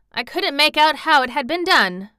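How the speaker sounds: high, loud Yorkshire lad; excited country boy; crying out. A narrator's reading. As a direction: exclaim with delighted wonder. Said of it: "cried Dickon".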